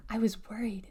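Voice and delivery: soft, voiceless whisper. A narrator's reading. Girl greets the long-awaited arrival, whispered. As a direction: whisper it as a private confession. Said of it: "she whispered".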